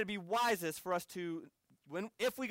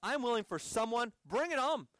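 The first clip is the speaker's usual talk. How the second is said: bold resolve; 5 semitones higher than usual. Retold or imitated. Preacher recalling readiness to face jail, defiant. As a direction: pitch climbing into a fired-up dare.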